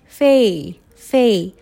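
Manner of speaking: "フェイ" with the full English "ay" glide; drawn-out A sound. Shown as a demonstration. Teacher isolating favor's first syllable, clear A sound. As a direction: stretch "フェイ" like fay, one at a time. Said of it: "Aで".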